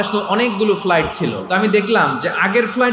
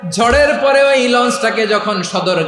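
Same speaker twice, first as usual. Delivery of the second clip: melodic preaching; 3 semitones lower, slower than usual. Real, not acted. Preacher on sailors forgetting Allah after the storm, singsong preaching.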